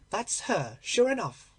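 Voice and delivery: a touch of the landlady exclaiming; exclaimed. Acted. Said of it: "she exclaimed".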